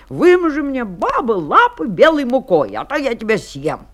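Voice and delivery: a touch of wolfish menace; mildly growling wolf. Acted. Wolf threatening the baker woman, mild growling demand. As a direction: order it firmly, with a light growl. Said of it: "волк и зарычал на неё".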